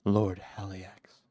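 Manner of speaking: slow, whispered gasp. A narrator's reading. Cinder addresses his tormentor, gasping slowly. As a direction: breathe the title out in pain. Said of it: "he gasped".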